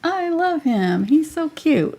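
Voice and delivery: high-pitched cooing; lifted, doting voice; adoring gush. Real, not acted. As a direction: coo over something adorable. Gushing over the finished painting.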